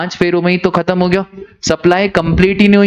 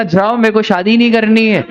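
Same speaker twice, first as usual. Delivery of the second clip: angry bride; 4 semitones higher than usual. Retold or imitated. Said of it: "ऐसे गुस्से में क्या बोल गया आशी".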